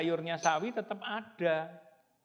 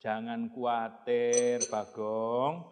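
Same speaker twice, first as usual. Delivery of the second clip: reassuring; slower than usual. Acted. Father reassuring the child.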